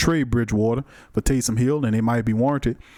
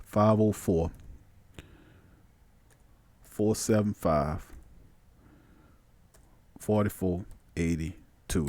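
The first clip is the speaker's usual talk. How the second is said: murmured while typing; 5 semitones lower, 7 dB quieter, slower than usual. Shown as a demonstration. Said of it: "We're gonna punch it in there".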